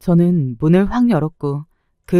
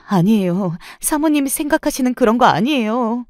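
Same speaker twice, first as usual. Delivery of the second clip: pleading, higher-voiced protest; acted weepy insistence; tearful denial; 7 semitones higher than usual. A narrator's reading. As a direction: deny it frantically, close to tears. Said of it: "울면서 손을 내젓기 시작했습니다".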